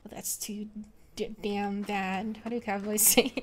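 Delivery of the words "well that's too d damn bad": cowboy drawl. Pretend. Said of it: "cowboy voice".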